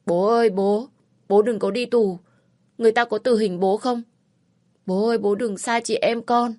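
high, loud pleading through tears; a child begging his father not to go; crying little brother. Acted. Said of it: "cũng khóc òa lên". (em trai khóc lóc van xin bố, giọng cao và to)

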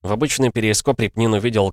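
ordinary talk

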